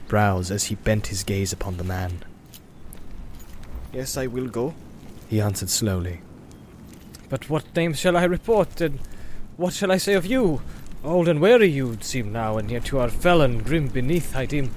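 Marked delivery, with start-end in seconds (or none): 3.9-14.7 higher, probing guard; wary guard. Acted. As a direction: question the old stranger warily. Guard questions Gandalf.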